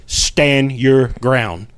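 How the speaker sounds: drawn-out, firm command; slow retold command, each word held; firm inner voice. Inner voice steadying a ghost investigator, firm and slow. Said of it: "that voice again is very firmly".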